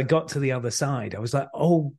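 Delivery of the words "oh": higher and louder, breathless with amazement; replaying the moment it sank in, thrilled; excited disbelief. Young actor realising Bill Paxton just phoned, excited disbelief.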